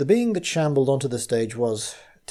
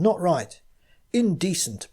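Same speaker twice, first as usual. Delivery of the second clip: bellowed; 7 semitones higher than usual. Acted. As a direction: bellow it in indignation. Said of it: "bellowed a cultivated voice".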